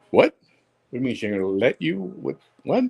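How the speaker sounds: fast, rising disbelief with a high final what; can't believe the excuse; incredulous what. Retold or imitated. Retold disbelief at friend's excuse.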